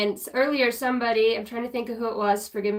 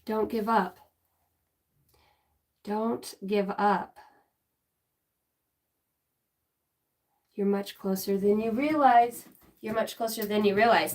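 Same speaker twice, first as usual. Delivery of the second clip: gentle message; 2 semitones lower than usual. Retold or imitated. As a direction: reassure her gently. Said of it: "I heard".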